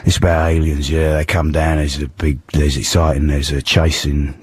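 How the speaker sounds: hoarse London hard-man voice; Ray Winstone impression. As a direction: play a tough geezer with a sore throat. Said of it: "I'm Ray Winston".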